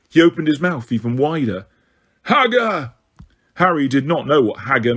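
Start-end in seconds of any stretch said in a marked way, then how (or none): 2.2-2.9 giant calling. A narrator's reading. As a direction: call out like a dim giant. Giant Grawp calls out.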